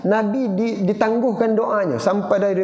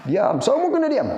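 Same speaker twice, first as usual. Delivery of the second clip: higher, sharp mock command for silence; father's order; 6 semitones higher than usual. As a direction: play the raging father hushing everyone. Angry father silencing the family.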